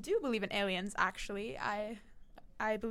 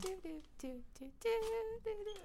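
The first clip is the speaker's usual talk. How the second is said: voice cracking; 11 semitones higher, 6 dB quieter, much faster than usual. Real, not acted. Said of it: "Oh, my voice cracked".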